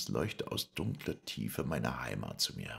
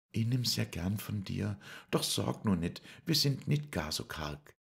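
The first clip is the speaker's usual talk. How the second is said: voiced much higher and a bit louder; Lisei's voice; 8 semitones higher, 4 dB louder than usual. Lisei declines Paul's money, much higher voice. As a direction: lift into a high, bright-toned young woman's voice. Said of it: "Aber sie sagte".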